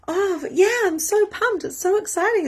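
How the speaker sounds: very high mock-excited chirp; fake excitement. Friend's words that hide her real energy, mock excited. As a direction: parody of hollow enthusiasm. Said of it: "her words said to me".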